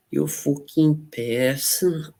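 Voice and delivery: slow, high Liverpool insult; Liverpool accent. Pretend. Streamer playfully insulting chat in a Liverpool accent. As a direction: drawl out a jokey Scouse curse. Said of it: "The Liverpool accent".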